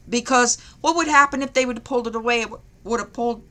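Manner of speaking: hiccuping mid-sentence; with hiccups. Real, not acted. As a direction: talk through hiccups. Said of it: "I've got the hiccups".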